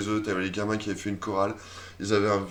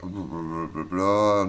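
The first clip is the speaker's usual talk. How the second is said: bored drawl; 4 semitones lower, much slower than usual. Real, not acted. Skipping boring text.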